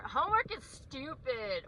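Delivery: mock sulky-kid voice; defiant kid. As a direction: imitate a child griping about chores. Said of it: "If he's saying".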